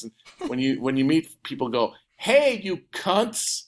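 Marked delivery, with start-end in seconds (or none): 2.2-3.7 slow, higher American greeting; American accent. Shown as a demonstration. Greeting people to watch them flinch, drawn-out American accent. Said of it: "try to do American accents".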